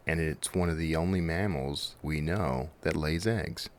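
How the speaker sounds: hammed-up deep-thought voice; mock profound. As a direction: play it like a grand nature fact. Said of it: "Isn't that profound?".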